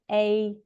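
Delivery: "A" said with a wide mouth shape; demonstrated wide "A". Shown as a demonstration. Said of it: "quite a wide shape with my mouth".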